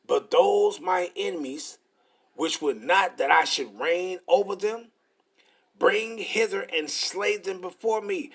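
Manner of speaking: slow, measured Bible reading; preacher reading the verse slowly; scripture reading. Acted. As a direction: read the verse out with weight. Reads scripture aloud.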